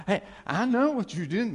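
high, loud and laughing; jokey gotcha delivered mid-laugh; laughing mock taunt. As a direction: tease through laughter, voice jumping up. Joking Jesus rubbing salt in wound.

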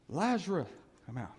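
loud call. Acted. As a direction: call the man out by name. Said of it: "Jesus cried in a loud voice".

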